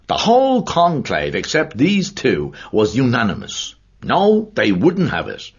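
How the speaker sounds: a hint of an earnest, emphatic old Dubliner; pub-talk storyteller, mildly emphatic; lightly voiced storyteller Cunningham. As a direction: lean into the tale, slowing on the key words. Cunningham tells church history.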